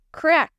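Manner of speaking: loud sharp crack; thunder crack. A narrator's reading. Thunder sound effect in story.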